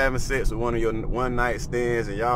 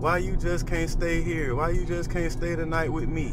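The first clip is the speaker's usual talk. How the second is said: put-on higher, childlike plea; pleading little girl; 6 semitones higher than usual. Father imitating his daughter begging him to stay, higher childlike plea. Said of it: "Guess what she say?".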